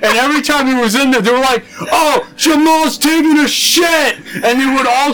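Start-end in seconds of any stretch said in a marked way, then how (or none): 1.8-4.2 high, drawn-out taunting announcement; mock kid calling out. Kids tattle on the boy in the stall, mock calling out. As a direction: imitate kids announcing it to everyone, high-pitched.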